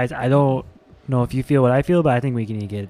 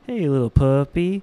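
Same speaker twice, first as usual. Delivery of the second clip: gentle to puppy. Acted. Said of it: "And I say".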